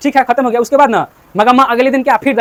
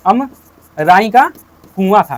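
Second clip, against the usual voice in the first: अमराई का drawn out very slowly, with a gap before कुआं; teacherly dictation, अमराई stretched in pieces; slow, broken-up repeat; 2 semitones lower, much slower than usual. Shown as a demonstration. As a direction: spell it out slowly for the class, pausing after अमराई का. Teacher repeats answer for class.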